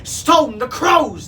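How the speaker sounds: high, loud, drawn-out squawk; loud parrot exclamation. A narrator's reading. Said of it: "the parrot squawked".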